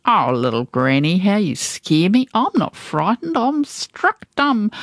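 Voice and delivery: nasty sneer. Acted. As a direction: taunt her, pretending to be scared. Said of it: "to answer with a nasty sneer".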